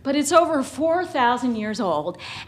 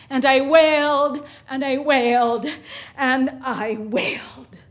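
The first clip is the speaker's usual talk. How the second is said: fading wail. Retold or imitated. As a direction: let the grief ebb away.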